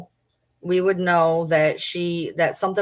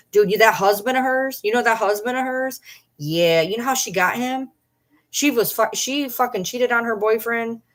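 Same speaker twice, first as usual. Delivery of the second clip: higher-pitched mock gossip, egging them on; pretend gossip; 4 semitones higher than usual. Streamer trolling as her own former schoolmate, mock-gossipy. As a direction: play a made-up old friend dishing dirt. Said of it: "I was just, I was pulling shit".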